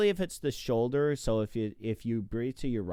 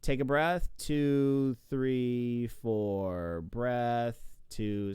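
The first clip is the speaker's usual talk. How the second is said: stroke count demo; much slower than usual. Shown as a demonstration. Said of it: "So this is a four stroke".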